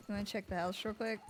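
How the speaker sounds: ordinary delivery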